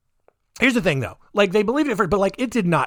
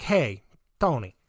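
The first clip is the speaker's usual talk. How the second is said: softer, lower put-on New York voice; put-on New York accent; 5 semitones lower, 5 dB quieter than usual. Brigitte convinces Tony, in a mock New York accent. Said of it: "why she got this accent".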